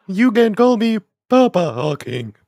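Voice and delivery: lightly voiced Stephen Hawking impression, laughing through it. Friend imitating a leering Stephen Hawking for laughs. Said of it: "my Stephen Hawking impression".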